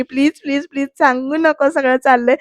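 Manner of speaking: lightly acted begging; mock pleading. Surya begs Chingali not to tell, lightly acted pleading. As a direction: repeat the plea in quick earnest appeal. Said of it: "हातबीत जोडून प्रार्थना करतोय".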